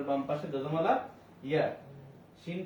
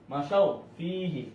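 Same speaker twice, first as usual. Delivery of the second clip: মা শাও ফিহি drawn out slowly; slow demo reading; slower than usual. Shown as a demonstration. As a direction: slowly model the word শাও for the student. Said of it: "হরকতের সঙ্গে তাড়াতাড়ি পড়তে হয়". (ধীরে ধীরে উচ্চারণ করে দেখানো)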